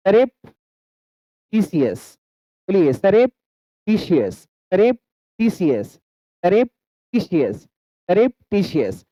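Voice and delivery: "सरेप" rising, pause, "टीशियस" falling; broken into syllables. Shown as a demonstration. Teacher has learners repeat a split word, syllable drill. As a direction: drill it in two chunks, "सरेप" then "टीशियस". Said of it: "दो syllable में break कर दिया".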